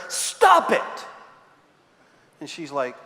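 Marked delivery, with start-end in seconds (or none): 0.1-1.0 high, curt "Stop it" from the sketch therapist; deadpan comic command; blunt psychiatrist. Retold or imitated. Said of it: "He just looks at her".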